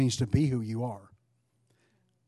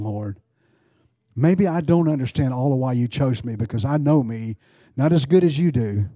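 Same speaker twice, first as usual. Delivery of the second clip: raised, earnest praying voice; fervent prayer; 6 dB louder than usual. Real, not acted. Preacher praying aloud to God before the church, fervent prayer. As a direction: plead with God at full voice.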